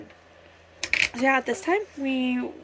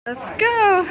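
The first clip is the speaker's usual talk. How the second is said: excited; 9 semitones higher, 6 dB louder than usual. Real, not acted. Cheer at start.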